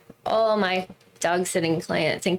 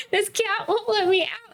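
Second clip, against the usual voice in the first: high-pitched mock panic; comic distress, pitched way up; retold scared plea; 11 semitones higher than usual. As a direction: plead for rescue, playing it for laughs. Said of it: "and I was scared".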